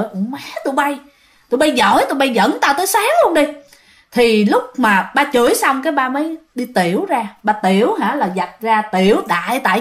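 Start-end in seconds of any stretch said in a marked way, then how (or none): 0.0-3.5 imitating an annoyed dad cursing; mock scolding, pitch climbing at the end; mild retold cursing. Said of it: "ba mới chửi". (giả giọng ba chửi bực bội, nhẹ)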